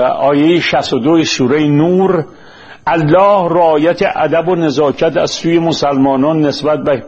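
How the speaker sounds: measured, formal reading of a prepared text; formal lecture-script delivery; formal read-aloud. Acted. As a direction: read it out deliberately in careful literary Persian.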